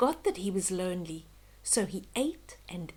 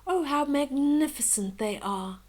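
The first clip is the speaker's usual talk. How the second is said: awed; 4 semitones higher than usual. Acted. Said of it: "thought the ugly duckling".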